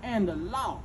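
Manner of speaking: a hint of a cold master laying down the law; voicing the old master. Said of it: "He told that boy".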